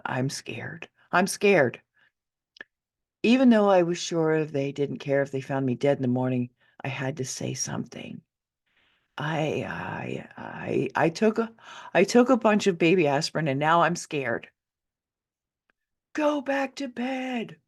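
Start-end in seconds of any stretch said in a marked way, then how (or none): 0.1-1.8 put-on whispered, trembling child's plea; scared whisper. Frightened child whispering to mother at door, scared. 9.2-14.5 put-on mild scared child. 16.1-17.6 dismissive mother. Acted. Mother dismissing frightened child.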